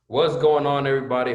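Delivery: big loud hello to everyone; loud greeting. Real, not acted. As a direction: call out the greeting. Loud greeting opening the talk.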